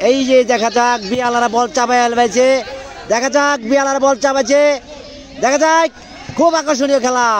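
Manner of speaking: rising pitch, building excitement; excited commentary. Real, not acted. Live match commentary building up.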